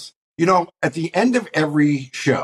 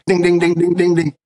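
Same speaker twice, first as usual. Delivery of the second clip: correct answer ding; 4 semitones higher, 3 dB louder than usual. Pretend. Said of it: "I'm just gonna go".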